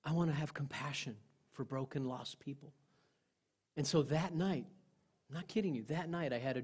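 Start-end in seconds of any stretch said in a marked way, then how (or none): 0.0-2.7 prayer. Retold or imitated. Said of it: "I prayed".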